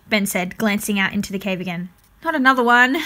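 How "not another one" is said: groaned. A narrator's reading. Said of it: "Paradise groaned".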